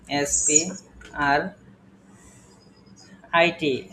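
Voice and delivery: এসপিআর drawn out very slowly letter by letter; slow spelling. Shown as a demonstration. Teacher spelling এসপিআর out slowly for the students. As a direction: stretch each letter of এসপিআর. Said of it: "spelling slowly".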